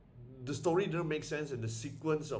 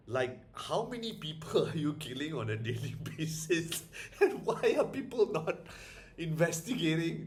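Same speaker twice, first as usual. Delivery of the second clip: laughing disbelief; 3 semitones higher than usual. Real, not acted. Laughing at the film's logic.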